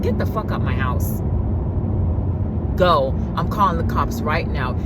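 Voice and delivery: low stern eviction; low firm command. Retold or imitated. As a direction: order him out, low and hard. Throwing him out.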